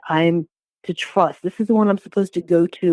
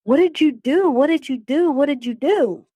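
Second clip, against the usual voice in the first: high, distraught repeated question; recalled tearful disbelief, pitched well up; retold crying plea; 8 semitones higher than usual. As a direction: re-enact pleading through tears, without real sobs. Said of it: "I'm crying. I'm like".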